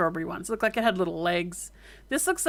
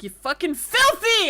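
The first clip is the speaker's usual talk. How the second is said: high, louder indignant cat; offended cat voice; 9 semitones higher, 5 dB louder than usual. Retold or imitated. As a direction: squeal it like an insulted cat. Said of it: "they're like".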